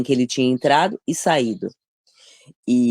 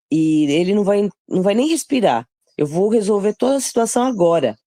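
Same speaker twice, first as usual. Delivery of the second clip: acted eager plea, pitched up; eager urging; 5 semitones higher than usual. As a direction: press a companion to let you act now. Acted urging of David to strike.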